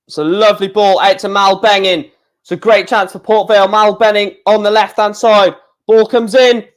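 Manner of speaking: football commentary climbing in pitch towards a chance; increasingly keyed-up live match commentator; building play-by-play. Real, not acted. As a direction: build anticipation as the attack develops.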